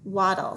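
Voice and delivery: "Waddle" with an ah, said briskly; corrected vowel sound. Shown as a demonstration. Teacher confirming the different vowel, corrected pronunciation. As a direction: say "Waddle" to rhyme with model. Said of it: "this A is making a different sound".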